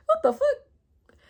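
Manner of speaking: high, slow, drawn-out outrage; stunned disbelief. Real, not acted. Ranting about her cousin's mother, slow high incredulous squeal. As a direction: let the disbelief stretch way up.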